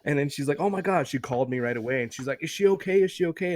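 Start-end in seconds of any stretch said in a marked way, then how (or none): 0.6-1.1 higher-pitched mock alarm; retold freak-out. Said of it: "she freaked out". 2.4-3.5 high-pitched imitated worry; retold freak-out. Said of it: "she freaked out".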